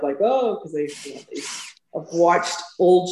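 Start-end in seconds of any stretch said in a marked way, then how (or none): 0.2-0.6 a high delighted Oh; light up with recognition on Oh. Retold or imitated. Locals lighting up at hearing Texas, a high delighted Oh. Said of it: "they're like, light up".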